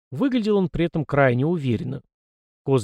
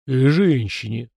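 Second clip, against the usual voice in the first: stern; 4 dB louder, slower than usual. Acted. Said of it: "сурово добавил Фома".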